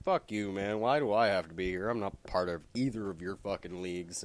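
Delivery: irritated rant; annoyed outburst. Retold or imitated. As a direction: complain like a sulky teenager dragged along. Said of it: "Shazam's just like".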